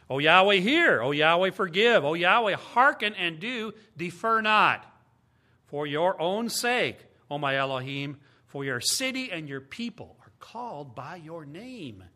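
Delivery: preacher reading a prayer with feeling; fervent prayer. Acted. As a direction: cry it out as a plea to God. Reading Daniel's prayer aloud.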